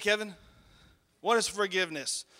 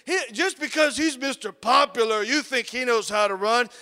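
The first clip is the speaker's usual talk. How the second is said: raised-pitch sneering imitation; mocking teacher; 4 semitones higher, 4 dB louder than usual. Teacher ripping the popular boy before classmates, mocking. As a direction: imitate a teacher tearing a kid down. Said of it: "she just ripped me a new one".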